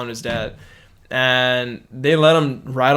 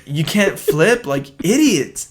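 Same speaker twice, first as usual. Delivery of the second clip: put-on slow, higher taunting drawl of a bratty kid; mocking kid; 3 semitones higher, slower than usual. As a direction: stretch out the insult like a smug kid. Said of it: "He's like".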